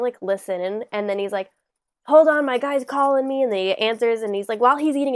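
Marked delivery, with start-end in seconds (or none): 2.1-3.4 louder, higher mock New York mobster; mobster style. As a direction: put on a bit of a Brooklyn mobster accent. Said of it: "mobster style".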